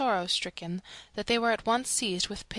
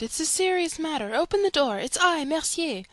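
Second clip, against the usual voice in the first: higher, louder call through a door; mock shout to be let in; retold shout; 8 semitones higher, 4 dB louder than usual. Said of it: "I shouted".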